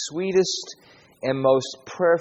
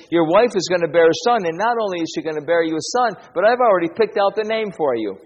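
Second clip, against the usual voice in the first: fast, louder, bubbling good news; excited announcement; 4 semitones higher, 5 dB louder, faster than usual. Acted. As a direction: Gabriel telling Zechariah of a son, fast and excited. Gabriel announcing a son.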